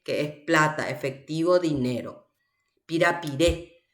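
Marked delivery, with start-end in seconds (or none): 2.9-3.8 "Pirapiré" rising onto the last É; teacher's model of end-stressed "Pirapiré"; stress on final vowel. Shown as a demonstration. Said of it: "¿Dónde recae".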